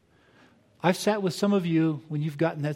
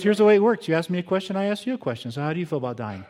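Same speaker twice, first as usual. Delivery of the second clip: louder, higher, laying down the rules, then dropping to a pointed question; feisty, emphatic; 4 semitones higher, 4 dB louder, faster than usual. Retold or imitated. Wife lays down the rules to the psychiatrist, loud and feisty. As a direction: lay out the rules, then turn it back on him.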